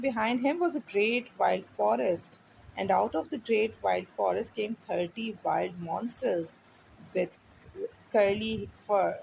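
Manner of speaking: put-on slow, clear read-aloud for a child; story reading. A narrator's reading. Teacher reading a storybook to a child, slow and clear. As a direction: read each word slowly so the child can follow.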